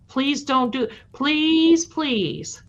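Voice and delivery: rising desperate please, please; begging. Retold or imitated. Teen begging the cop, pleading voice. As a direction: beg like a scared teen.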